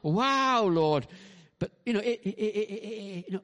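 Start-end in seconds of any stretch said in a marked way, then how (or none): 0.0-1.1 high, loud mock amazement; awed wow. Preacher imagining Peter awed at Jesus, mock amazement. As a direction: exclaim in wonder.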